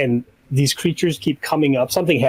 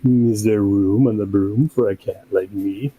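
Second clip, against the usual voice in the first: cat voice; 5 semitones lower than usual. Retold or imitated. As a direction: lower purring cat voice. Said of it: "and then the cat is like".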